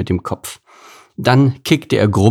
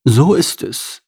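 agreeing horse; 5 semitones higher, slower than usual. Acted. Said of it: "bestätigte Anton".

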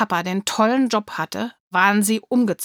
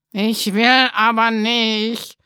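put-on slow, stubborn child's voice close to tears; tearful defiance; 4 dB louder, slower than usual. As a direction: hold back tears and refuse. Kind kurz vor dem Weinen. (trotzig, den Tränen nahe)

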